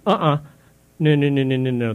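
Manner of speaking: loud, firm string of no's; real indignation. Real, not acted. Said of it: "steam is coming out my ears".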